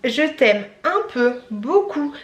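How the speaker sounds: slow, phrase-by-phrase recitation; child's poem recital. Retold or imitated. Reciting her daughter's Mother's Day poem, slow sing-song recital.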